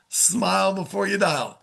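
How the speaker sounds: brightly grinning sales-coach delivery; smiling voice. Shown as a demonstration. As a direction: smile audible in the voice. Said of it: "Was that a fake smile or what".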